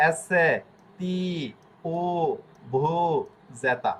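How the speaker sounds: letter by letter, with pauses; a teacher reviews the alphabet; reciting the alphabet. Shown as a demonstration. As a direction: recite the Italian alphabet slowly. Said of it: "আমি আবারও দেখে দিচ্ছি".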